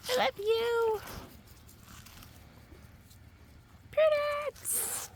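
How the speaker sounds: high sweet coo. Real, not acted. Owner tells her dog she loves her, high cooing.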